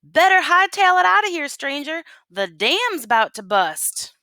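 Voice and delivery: high, loud urgent shout; frantic townsfolk shouting a warning. A narrator's reading. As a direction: yell at the stranger to run. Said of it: "Folks were scrambling about and shouting".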